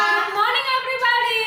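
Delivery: high, loud sing-song good morning; cheerful greeting. Real, not acted. Teacher greets children, sing-song.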